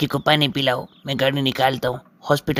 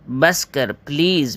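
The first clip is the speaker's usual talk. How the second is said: slow, drawn-out fed-up begging; exasperated plea; much slower than usual. Acted. Brother to sister, begging to be left alone, drawn out and fed up. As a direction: stretch it out like you've had enough.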